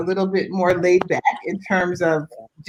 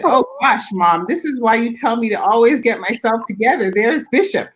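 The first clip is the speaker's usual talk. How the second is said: higher-pitched imitation of a flustered daughter; retold exclamation; 3 semitones higher than usual. Daughter tells mom she bumped into Bishop, retold exclamation. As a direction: relay a daughter's sudden realization.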